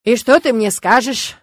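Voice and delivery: plain reading voice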